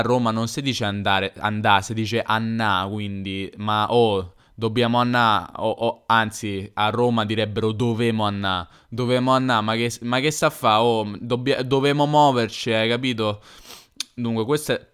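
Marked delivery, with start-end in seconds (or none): 3.6-13.4 rough Roman banter, come on, let's go; a hint of a Roman street accent. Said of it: "questa è la mia imitazione dell'accento romano".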